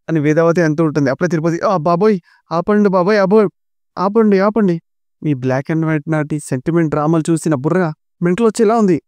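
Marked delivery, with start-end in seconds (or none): 1.6-9.0 high, hammed-up exasperation; exasperated pleading. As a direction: beg them to stop the melodrama. Tirupati begs them to stop.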